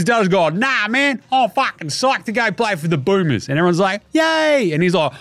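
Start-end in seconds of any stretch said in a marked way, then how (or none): 0.5-3.5 higher, eager mock promise; mocking imitation. 4.1-4.7 high, sarcastic yay; mock cheer. Everyone cheering.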